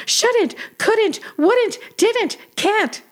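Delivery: high-pitched mock labor cry; mock shout. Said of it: "woman in labor who suddenly shouted".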